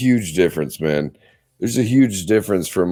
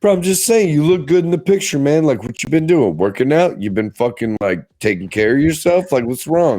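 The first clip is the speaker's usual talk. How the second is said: complimenting a friend; 4 semitones higher than usual. Retold or imitated. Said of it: "And I'm like".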